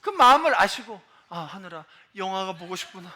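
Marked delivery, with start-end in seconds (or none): 1.3-3.1 soft, tender fatherly reply; hushed, kindly dad voice; merciful father. Retold or imitated. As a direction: answer your little son gently and quietly. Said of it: "자비하고 풍성한 아버지께서".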